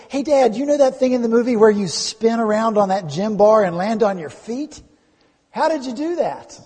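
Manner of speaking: put-on six-year-old son. Son to dad about a movie stunt, eager child. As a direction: call to Dad like an excited little boy. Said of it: "A little later he said".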